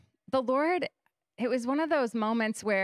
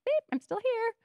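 mock beep; 13 semitones higher than usual. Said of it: "you know".

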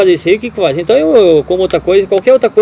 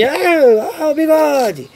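imitated distant shout; 10 semitones higher, slower than usual. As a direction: mimic hailing someone from afar. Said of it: "ele gritou pra mim".

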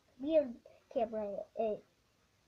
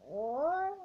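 Feisty; 3 semitones higher, 5 dB louder than usual. Acted. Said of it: "Feisty's like".

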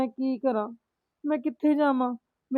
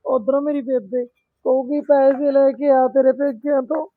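louder, wailing out her troubles; tearful loud complaint; 7 dB louder than usual. Acted. Daughter to her mother about the in-laws, loud tearful wail. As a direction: pour out the grievance, nearly crying.

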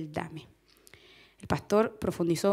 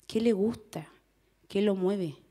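whispered. Acted. Rhetorical question, whispered.

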